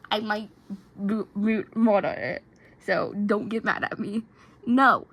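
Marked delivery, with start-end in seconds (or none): 4.7-5.1 screaming no. Acted. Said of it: "Nico screamed in Italian".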